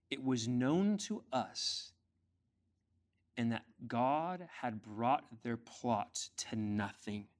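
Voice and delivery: slow, deliberate proclamation, easing off; weighty scripture reading. Acted. Preacher reading verse fifteen to church, slow and weighty. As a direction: spread the verse out phrase by phrase.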